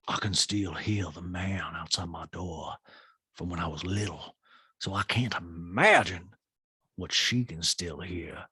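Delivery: dark, slowing, low impression; hushed mock-ominous telling; Sutton. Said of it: "Sometimes Sutton gets dark".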